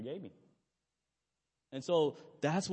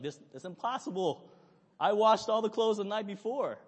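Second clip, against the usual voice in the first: higher and louder, building to an indignant protest; retold upset protest; 6 semitones higher, 4 dB louder than usual. Preacher retelling arguing with wife, rising indignant protest. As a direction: replay the husband losing patience. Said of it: "I'm just getting upset".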